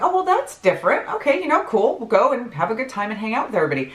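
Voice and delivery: high-pitched, mildly thrown reaction; tripped up. Retold or imitated. Woman recalling her reaction to party plans, mildly tripped up. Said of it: "I was kinda tripped up by that".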